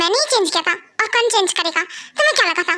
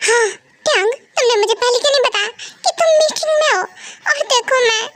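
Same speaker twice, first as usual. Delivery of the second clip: whiny half-crying; 3 semitones higher than usual. Acted. Wife embarrassed after meeting ends.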